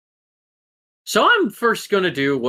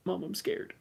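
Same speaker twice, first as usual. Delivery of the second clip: high, soft, timid little voice; a cowering creature whimpering for mom; mock scared; 7 semitones higher, 12 dB quieter than usual. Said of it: "cowers a little and goes".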